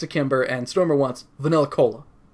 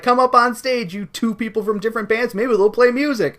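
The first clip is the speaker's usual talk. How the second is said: announcer voice; 7 semitones higher, 3 dB louder than usual. Acted. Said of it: "the magician lady is like".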